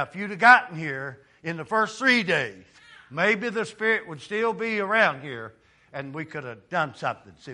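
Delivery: 1 pleading. Retold or imitated. Martha pleading with Jesus.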